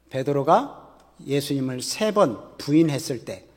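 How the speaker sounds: ordinary delivery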